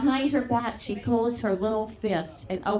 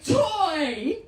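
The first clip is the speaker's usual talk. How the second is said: mock toddler yell, pitched higher; 5 semitones higher than usual. Crying two-year-old pointing at Mary, toddler yell. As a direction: cry it out like an upset little boy. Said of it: "he yells".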